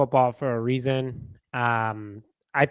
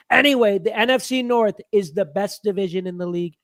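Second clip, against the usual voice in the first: pitched-up character read of the comment; put-on character voice; 5 semitones higher than usual. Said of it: "do the voice".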